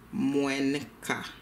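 moins quart with the N clearly sounded, mwɛnk a; nasal N shown. Shown as a demonstration. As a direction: let the N of moins ring into quart. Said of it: "You heard the N?".

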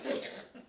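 mimicked stifled laughing burst; wordless mock laugh; imitated laugh. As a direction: imitate her breaking into laughter. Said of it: "she started laughing like this".

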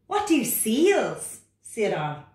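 high, loud, protesting frog voice; reluctant frog. Acted. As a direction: whine back like a stubborn little frog. Frog character.

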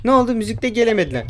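ordinary delivery

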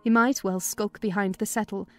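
usual speaking voice

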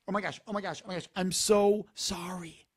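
mock pitying gasp of sorry. Shown as a demonstration. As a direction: overdo the sympathy. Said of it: "this looks like pity".

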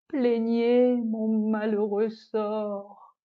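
slow, weeping plea for pity; tearful lament. Acted. The disgraced dish begs the audience, slow and tearful. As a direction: drag the words out as if on the verge of tears. Lament after being sent away.

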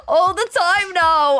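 high, slow put-on accent; drawn-out strained caricature; stuck character voice. Shown as a demonstration. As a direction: keep sliding into the silly high voice. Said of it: "my voice wants to go like this".

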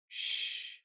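soft whispered shush; hushing. Acted. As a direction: finger to the lips. Frisk silences Flowey.

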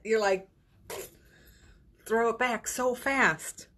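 ordinary talk

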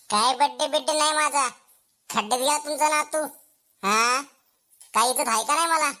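mildly irritated protest; sulky annoyance. Acted. Upset birthday boy refuses his grandfather's coaxing, sulky annoyance. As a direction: grumble back at a coaxing elder. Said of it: "एवढं चिडू नको बाळा".

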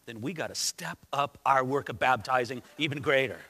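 lightly acted low, scheming grumble; John the Baptist. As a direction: play an imagined rival fretting over his crowd. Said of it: "Is John the Baptist gonna say".

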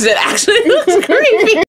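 high, loud laughing words. Real, not acted. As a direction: laugh through the line. Laughing at creepy look.

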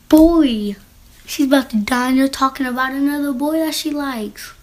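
loud, high, fed-up cry; exasperated outburst. Real, not acted. Viewer shouts at the texters, fed up. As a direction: yell at the characters in disbelief. Reacting to the story in disbelief.

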